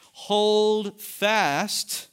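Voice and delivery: high, loud, ringing command; emphatic proclamation. Acted. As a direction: call it out like a charge to the church. Preacher quoting Jesus emphatically.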